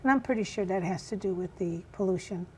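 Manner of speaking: hoarse, raspy speaking voice. Real, not acted. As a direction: talk through a worn raspy throat. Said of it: "I have a raspy voice".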